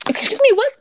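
incredulous high-pitched what?; double take. Real, not acted. Incredulous reaction to fan theory.

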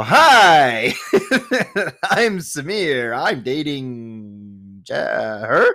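high, slow, laughing through the hello; nervous laughing greeting. Retold or imitated. Caught by her mom at the door, nervous laughing hello.

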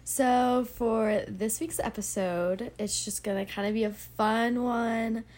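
sick, blocked-up stuffy voice; stuffy nose. Real, not acted. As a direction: talk through a stuffy nose. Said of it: "Sorry I sound a little, like, sick".

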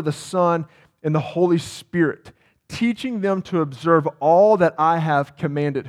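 measured pulpit reading of scripture. Acted. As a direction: proclaim the verse to the congregation. Reads the Great Commission aloud.

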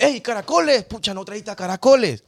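mock heckle without real volume; retold crowd shout. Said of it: "comenzó la gente a gritarle".

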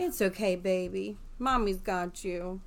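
soft, slow comforting mother; soothing a child. Acted. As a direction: hush him gently, slowing down. Mother hugs frightened son.

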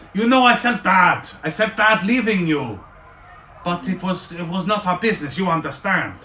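high, earnest little gnome; a small gnome apologizing. Acted. GM voices gnome Zanlin.

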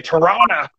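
"Toronto" said loosely, as Toronna; local Toronto pronunciation. Shown as a demonstration. Host shows how southern Ontarians say it, slurred local "Toronto". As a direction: drop the second t in "Toronto". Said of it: "we would say Toronto".

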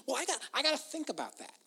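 slightly put-on voice of an overthinker; mock overthinker. Preacher imitating those who think everything through, mock pondering. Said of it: "They think everything through".

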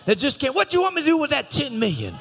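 shouted preacher's cry, high and loud; roaring sermon climax; preaching at full force. Acted. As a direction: thunder it out to the congregation.

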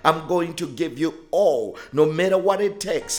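fervent preaching. Acted. Pastor urging listeners to give everything, fervent preaching. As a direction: preach it with growing fire. Preaching builds to full force.

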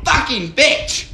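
slow laughing swear; laughing curse. Real, not acted. Rejected call, laughing.

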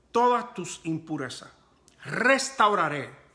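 emphatic, measured Bible reading; scripture reading. Real, not acted. Preacher reads God's warning to the congregation, emphatic scripture reading. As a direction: read the verse out with weight, phrase by phrase.

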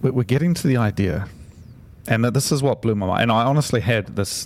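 wired, eager rush of words; coffee-charged and keen; too much caffeine. Real, not acted. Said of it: "the coffee is kicking in".

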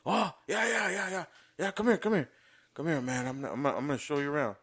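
high, eager yeah-yeah voice; eager Barry. Retold or imitated. Imitating Barry greeting the new guy, high and eager. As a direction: play the laid-back senior brushing it off. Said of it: "I'm like".

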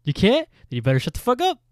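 loud, high triumphant comeback; mock confrontation. Priest shutting down his accuser, loud mock outrage. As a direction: shut them down loudly, pitch jumping up.

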